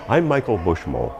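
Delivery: confident self-introduction, last syllable of "Bushmo" falling; falling on name. Shown as a demonstration. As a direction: pitch drops firmly on "Bushmo". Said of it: "you drop your pitch at the end of it".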